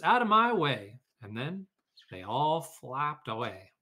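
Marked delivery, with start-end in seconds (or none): 0.0-1.0 louder and higher shove-off; loud goose. A narrator's reading. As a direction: bark it like a goose barging through. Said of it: "cried the goose".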